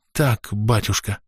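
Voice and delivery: cowed husband fawning to the priest; servile rasp. A narrator's reading. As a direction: croak out agreement obsequiously. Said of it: "угодливо просипел тот".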